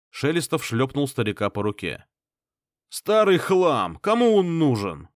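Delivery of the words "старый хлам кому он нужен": loud, slow contempt; scornful shout. A narrator's reading. Clan head scornfully dismissing the candle. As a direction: sneer at the relic.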